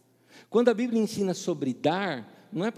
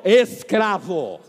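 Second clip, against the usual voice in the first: louder, slow solemn "Escravo"; slow mock solemnity; 11 dB louder, much slower than usual. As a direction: announce "Escravo" slowly, like a title. Mock deacon's title.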